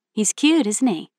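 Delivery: a hint of a cheerful stranger; friendly young woman.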